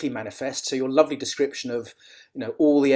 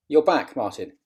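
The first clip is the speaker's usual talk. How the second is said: shouting on bad phone line; 3 semitones higher, 4 dB louder, faster than usual. Real, not acted. Video call connection dropping out.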